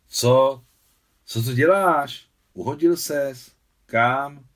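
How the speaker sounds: high, loud, urgent questioning; alarmed questions. A narrator's reading. Worried reaction after boy's fall.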